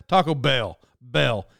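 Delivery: weight on "Bell", the second word; stress on Bell. Shown as a demonstration. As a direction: land firmly on "Bell". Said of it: "that second word".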